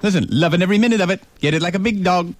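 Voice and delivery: beats tapped out in "loving every minute of it"; rhythm demo. Shown as a demonstration. Host shows caller the lyrics don't fit. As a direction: show the rhythm of each line. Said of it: "It's not the same rhythm".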